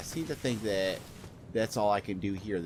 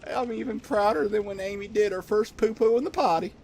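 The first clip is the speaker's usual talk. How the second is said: high, loud Southern hick voice; 13 semitones higher, 6 dB louder than usual. Acted. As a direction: gush like a proud Southern hick dad. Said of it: "I turned him into a Southern hick".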